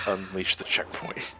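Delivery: repeating his own slip in slow amusement; slow mocking repeat. Shown as a demonstration. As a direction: savour the blunder slowly. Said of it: "Did I say unleash the checkpoint?".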